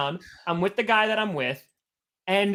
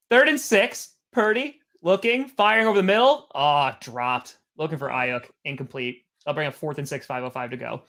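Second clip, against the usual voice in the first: raised call sinking low after the miss; live play-by-play; 4 semitones lower than usual. Real, not acted. Streamer calling a dropped pass, deflating play-by-play. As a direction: call it keenly, then deflate.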